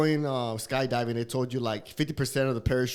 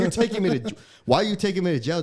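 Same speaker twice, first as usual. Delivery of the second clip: higher-pitched retold complaint; indignant protest; 5 semitones higher, 4 dB louder, faster than usual. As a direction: plead your case in mock indignation. Acting out protest to cop.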